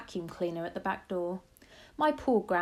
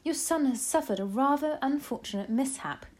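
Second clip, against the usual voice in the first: higher, earnest grandmother voice; firm grandmother; 7 semitones higher, 3 dB louder than usual. A narrator's reading.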